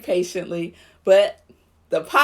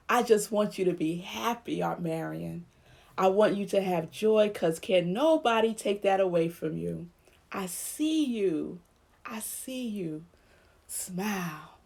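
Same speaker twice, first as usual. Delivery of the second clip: much softer, tender and intimate; 7 dB quieter than usual. Retold or imitated. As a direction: soothe a loved aunt into smiling. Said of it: "whenever I'm with my aunt now".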